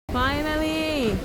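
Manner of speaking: high, drawn-out cry of relief; excited cheer. Real, not acted. Watching a long-awaited rescue at sea, excited cheer.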